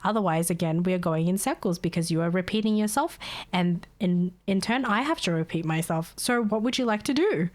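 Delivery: calmly. Retold or imitated. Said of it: "I speak to her calmly again".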